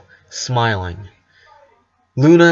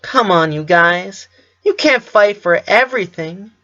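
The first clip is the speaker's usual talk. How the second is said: tender; 8 semitones higher than usual. Acted. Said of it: "tenderly said Lenny".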